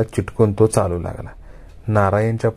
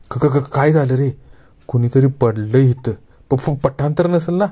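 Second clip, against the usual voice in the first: higher, stuttering with fear; frightened stammer; 4 semitones higher than usual. Acted. Bapu terrified in the dark stammers his question to Narayan. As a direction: get the words out through chattering fright.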